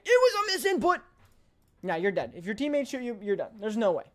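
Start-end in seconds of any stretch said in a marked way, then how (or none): 0.0-1.0 high, loud imitation of a yelling teammate; hammed-up high mock scream. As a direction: scream the excuse like the panicked teammate. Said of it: "teammate will be screaming at you".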